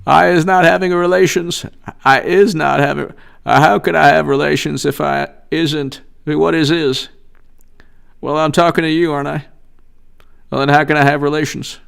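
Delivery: mildly impersonated evasive politician; lightly put-on voice, arguing his innocence; Bill Clinton. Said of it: "my Bill Clinton".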